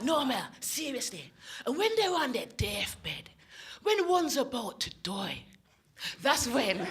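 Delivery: put-on slow, solemn Scottish accent; George. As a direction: confide a grave secret in a Scottish accent, drawing it out. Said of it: "this is how George sounded".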